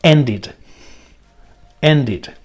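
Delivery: ended said as two syllables, en-did; ended with extra syllable. Shown as a demonstration. Teacher models ended for the class, with the extra id syllable. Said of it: "La pronunciación del pasado sería".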